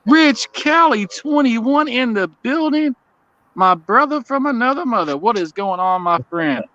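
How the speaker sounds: high, slow hyped welcome; excited greeting. Real, not acted. Greeting a friend in chat.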